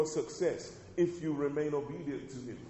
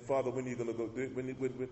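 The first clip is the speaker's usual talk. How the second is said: mock impatient plea; 3 semitones lower, 5 dB quieter, faster than usual. Mock impatient Jesus quote.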